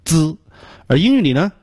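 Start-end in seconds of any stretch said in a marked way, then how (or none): 0.0-0.4 "滋" with a blocked, popped dz start; short popped "滋"; plosive Chinese sound. Shown as a demonstration. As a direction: block the air with the tongue, release "滋". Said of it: "有一种爆破音".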